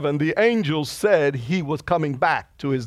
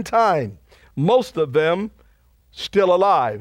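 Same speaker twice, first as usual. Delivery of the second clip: slow, emphatic preacher's reading voice; scripture reading; 3 semitones higher than usual. Acted. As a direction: proclaim each phrase with weight, pausing between. Reads scripture aloud to congregation.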